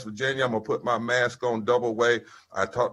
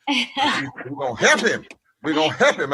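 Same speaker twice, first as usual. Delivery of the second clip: emphatic preaching; 4 semitones higher, 4 dB louder than usual. Acted. Preacher repeating rally line emphatically.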